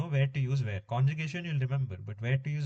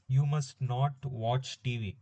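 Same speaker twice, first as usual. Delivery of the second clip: slow dictation; slower than usual. Shown as a demonstration. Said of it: "Another example".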